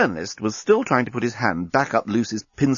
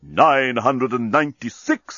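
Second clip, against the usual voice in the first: talking bomb; slower than usual. Acted. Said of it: "said the bomb".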